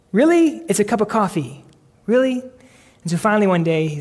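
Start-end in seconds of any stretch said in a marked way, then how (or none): 0.1-2.4 exasperated mock disbelief; incredulous. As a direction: scoff at the fuss. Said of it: "It sounded so pious and just fake".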